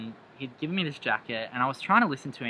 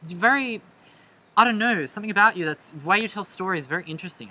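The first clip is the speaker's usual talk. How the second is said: much higher put-on voice for him; imitating the date; 7 semitones higher, 5 dB louder than usual. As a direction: mimic his eager praise, pitched up. Quoting the date's compliment.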